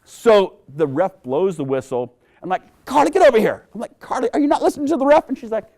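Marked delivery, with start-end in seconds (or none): 2.8-3.7 higher, louder call across the field; dad calling Carly off the pitch, loud. Retold or imitated. Dad calling daughter over. 4.0-5.3 exasperated dad. Retold or imitated. Dad questioning daughter.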